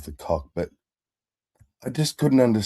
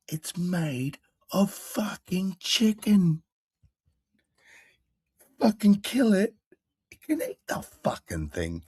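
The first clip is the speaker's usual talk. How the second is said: much higher, hammed-up farmer ranting about chickens; British farmer impression; 8 semitones higher than usual. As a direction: squeal it like the manic farmer. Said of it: "He's like".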